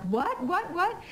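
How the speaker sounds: high squealing mock what; giddy disbelief. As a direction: act out the excited shock. Excited disbelief.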